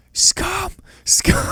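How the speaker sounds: high yelled "Scum!" imitating a protester; mock shouting. Friend retelling a funeral heckler, mock high shout.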